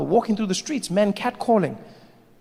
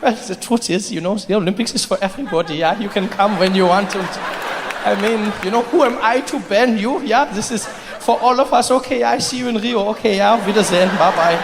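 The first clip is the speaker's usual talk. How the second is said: backpedalling committee official. Acted. Committee official backs down before Russians.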